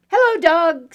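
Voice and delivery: high, loud little duck; cheery duck greeting. Acted. Duck greets dog from the bike, high duck call. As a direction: pitch it up and call out.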